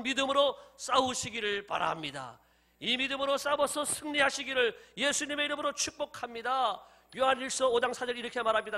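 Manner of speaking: loud, emphatic preaching to a congregation. Acted. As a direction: proclaim it firmly, rallying the church. (힘주어 선포하는 설교)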